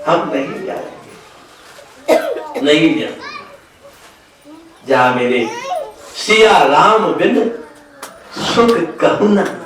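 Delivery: halting, tearful mock sobbing; acted weeping plea. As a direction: break the plea up with gaps, as if crying. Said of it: "तो रो रहे".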